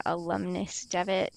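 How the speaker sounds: slow, drawn-out sneer on alumnus Devitt; drawn-out mocking title. Groundskeeper slowly sneering at the visitor's title, drawn out. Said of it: "Why you gotta say it like that".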